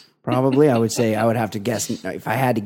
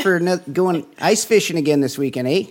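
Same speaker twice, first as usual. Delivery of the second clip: put-on Midwestern accent; 5 semitones higher than usual. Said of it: "that Midwestern".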